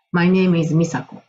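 "My name is 美佐子" in flat katakana English, slow; "My name is 美佐子" like a Japanese schoolkid, syllable by syllable; Japanese-style English. Shown as a demonstration. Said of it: "これ日本語っぽいですよね".

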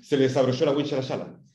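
"desabrochó" and "wincha" with SH for CH. Shown as a demonstration. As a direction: soften every CH to SH, "desabroshó la winsha". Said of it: "Si a mí se me cae la S H". ("desabrochó" y "wincha" con SH en vez de CH)

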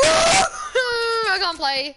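slow crying-out complaint; frustrated wail. Real, not acted. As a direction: wail it, fed up with yourself. Upset at own play.

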